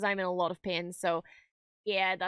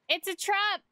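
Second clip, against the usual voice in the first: a light, higher mock Ackbar shout; quoting the admiral's warning for fun; Admiral Akbar quote; 8 semitones higher than usual. Fan quoting Admiral Akbar at Mando, lightly voiced higher. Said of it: "Listen to Admiral Akbar".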